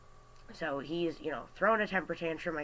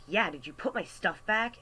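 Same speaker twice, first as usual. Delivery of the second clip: higher, mock-demanding quote of a customer; 4 semitones higher than usual. Customer checking on his stuff at the register, demanding. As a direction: imitate a pushy customer's question.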